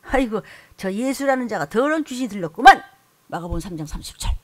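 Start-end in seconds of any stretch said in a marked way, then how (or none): 0.0-2.8 mocking scribe. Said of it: "야단치는 예수님한테".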